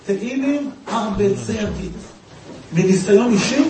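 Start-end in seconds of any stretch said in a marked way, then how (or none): 0.1-1.9 put-on an old man's lightly Yiddish-flavoured phrase, higher; Yiddish-accented quote. Secular old man answering Rav Kook in Yiddish. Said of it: "הוא אומר לרב קוק ביידיש".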